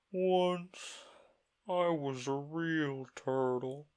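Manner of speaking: high, slow, sighing turtle; deep sigh. Acted. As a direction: heave the words out sadly. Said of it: "with a deep sigh".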